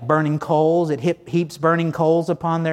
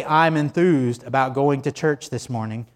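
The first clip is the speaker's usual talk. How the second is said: dutiful, lifeless recital of the words; unenthused; 2 semitones lower than usual. Shown as a demonstration. Preacher shows the congregation the wrong way, unenthused. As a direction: say it like you don't mean it. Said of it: "You just can't say".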